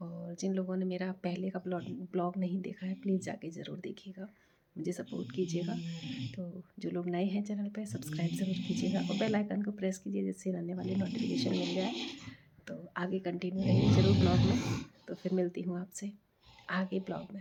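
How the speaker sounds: speaking softly.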